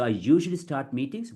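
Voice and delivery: joined smoothly as a single phrase; one chunk. Shown as a demonstration. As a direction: say it in one connected unit. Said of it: "one chunk".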